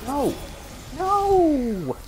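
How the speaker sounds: loud, high cry of protest; sudden desperate shout; real shout. Real, not acted. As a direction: yell it out in real panic. Losing the fight in game.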